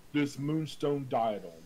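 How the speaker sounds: lightly voiced ghostly priest. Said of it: "when I do his voice".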